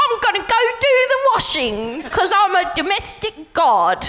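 partner impression. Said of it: "when I do it around the house".

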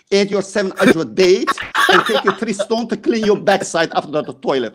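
chuckling through the mockery; mocking laugh under the words. Real, not acted. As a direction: laugh while you taunt. Mocking Muslims' customs.

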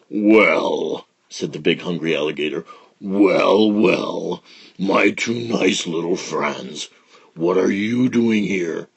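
slow sly big alligator; lightly voiced sly crocodile.

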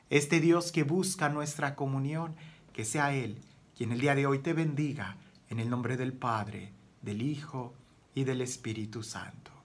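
low, softening priestly blessing; hushed benediction; closing blessing. Real, not acted. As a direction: bless the listeners gently, voice sinking to the end.

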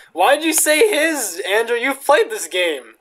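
high, loud, drawn-out protest; exasperated scolding. Real, not acted. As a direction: call them out, stretching the words. Scolds Andrew over the game.

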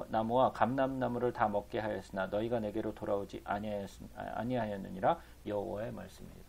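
even, measured Bible reading; scripture reading. A narrator's reading. Preacher reading the prophet's words to the congregation, formal recitation. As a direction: read the verse out formally.

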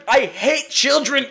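slow growling villain voice; gruff character voice. Acted. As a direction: growl it like a brute.

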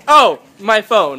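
imitating a casual clarification, drawn out; casual cover-up. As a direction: slowly explain it as if totally normal. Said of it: "make it totally normal".

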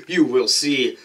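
slow ringside announcer build-up; wrestling announcer. Pretend. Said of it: "I'm saying it like a wrestling announcer".

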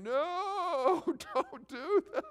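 high, gentle voice with a laugh, slowed; gently warning him off, with a chuckle; voice of the Spirit. Acted. The Spirit of God stopping him from sending the email, high and gentle with a laugh. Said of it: "the Spirit of God saying".

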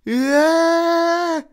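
high, piercing, loud scream of horror; terrible scream. A narrator's reading. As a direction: shriek as if seeing something monstrous. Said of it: "Malfoy vyrazil strašlivý výkřik".

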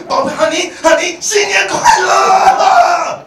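high, slow, loud crooned endearments; mock sweet-talker. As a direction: ham up a gushing lover. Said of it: "然后你在那边说". (夸张高声拖长地撒娇)

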